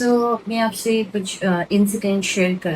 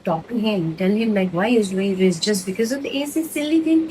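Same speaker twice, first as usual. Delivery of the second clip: outraged at stopping over the AC; shocked exasperation. Retold or imitated. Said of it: "like, literally shocked".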